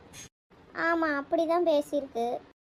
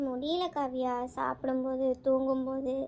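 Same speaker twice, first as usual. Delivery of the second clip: tearful; 2 semitones lower than usual. Acted. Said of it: "அழுதுகிட்டே இருக்க".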